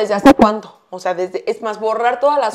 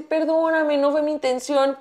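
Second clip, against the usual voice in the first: mildly pleading, higher voice; retold apology, pitched up a little; meek apology; 3 semitones higher, 4 dB quieter than usual. Driver apologizing to the motorcyclist, mock-meek and gentle.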